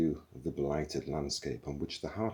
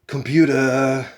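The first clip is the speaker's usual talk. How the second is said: slow, louder, deliberate address; warning tone; 7 semitones higher, 13 dB louder, slower than usual. A narrator's reading. Zaphod addressing the computer, slow warning. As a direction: draw it out as a warning.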